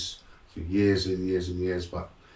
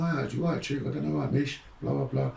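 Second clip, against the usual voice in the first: high, light retold chatter; breezy higher-pitched quote of a cousin; cousin's chatter; 7 semitones higher than usual. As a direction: rattle it off high, in imitation.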